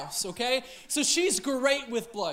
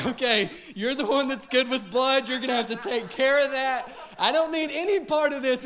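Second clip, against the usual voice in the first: mock cowardly dodge; 4 dB louder than usual.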